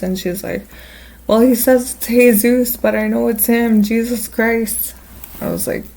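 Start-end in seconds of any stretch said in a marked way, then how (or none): 1.3-4.9 high, insistent mock drunk friend; excited insistence. Drunk friend insisting it's really Jesus, high and excited. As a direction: imitate her insisting, slowing on the last words.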